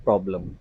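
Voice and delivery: प्रॉब्लम with an open 'aw' in the first syllable; correct pronunciation. Shown as a demonstration. Teacher repeats the word for students, correct pronunciation. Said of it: "तो ये क्या है word?".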